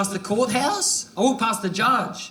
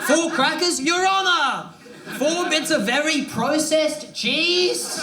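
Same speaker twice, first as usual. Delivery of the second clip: incredulous outrage; 5 semitones higher than usual. Acted. Outraged address to judge.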